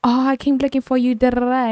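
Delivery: put-on old lady voice. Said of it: "She was like".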